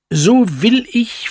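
offended cuckoo vowing revenge; vain cuckoo. A narrator's reading. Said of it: "fuhr er fort".

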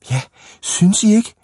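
put-on high, eager old-lady voice; agreeing old ladies. A narrator's reading. Two old ladies to the boys, high and eagerly agreeing. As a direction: pitch it up, keen for agreement.

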